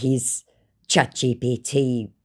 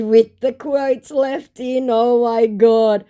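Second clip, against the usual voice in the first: slow, higher, incredulous; mocking disbelief; 10 semitones higher, 6 dB louder, slower than usual. Mocking the scammer for leaving quotes in, incredulous. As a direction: drag it out in disbelief. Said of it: "I said".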